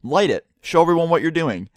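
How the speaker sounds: lightly voiced demanding teacher; insistent teacher. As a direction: imitate the sub pushing him to light it. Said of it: "And she goes".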